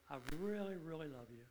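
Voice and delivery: mean every word of it, softly; tender agape love. Shown as a demonstration. Preacher showing his wife real agape love, tenderly. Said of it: "But if I say it with that agape love".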